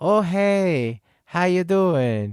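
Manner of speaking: high, slow, mock Chinese-accented girl voice, broken English.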